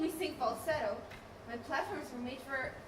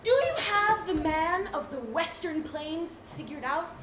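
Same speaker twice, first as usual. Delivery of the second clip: slow dim voice; 3 semitones higher, 3 dB louder, slower than usual. Acted. Slow dim-witted character.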